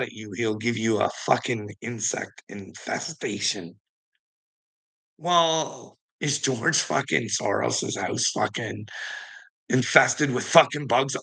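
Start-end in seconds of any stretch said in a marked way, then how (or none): none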